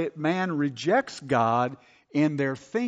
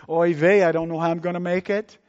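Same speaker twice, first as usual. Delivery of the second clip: fretful believer; 4 semitones higher, 6 dB louder, faster than usual. Retold or imitated. Worried believer voiced in sermon.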